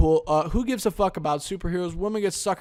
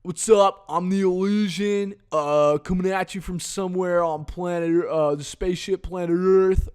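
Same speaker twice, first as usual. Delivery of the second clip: lightly voiced spacey host greeting; imitating The Illusion; 3 semitones higher, 4 dB louder than usual. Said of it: "he talks like that".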